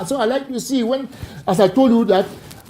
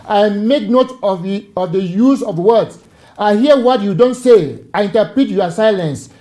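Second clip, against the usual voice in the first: harsh tone; 5 dB louder than usual. Shown as a demonstration. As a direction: lay down each word like a firm warning. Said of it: "I'm using a harsh tone".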